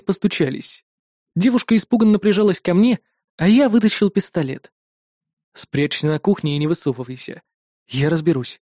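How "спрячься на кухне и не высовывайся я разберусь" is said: low, quieter cold command. Acted. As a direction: hide her with icy calm. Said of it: "холодно произнёс я".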